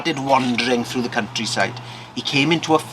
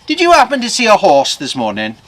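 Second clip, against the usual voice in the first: higher, louder leading question; probing question; 6 semitones higher, 7 dB louder than usual. Acted. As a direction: ask it as if already guessing the answer. Blacksmith probes the farmer.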